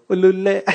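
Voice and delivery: a light, happy sing-song burst; joyful trill. Shown as a demonstration. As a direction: let joy bubble out in a playful trill. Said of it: "अंदर से कुछ निकल रहा है". (खुशी से गुनगुनाती हल्की तान)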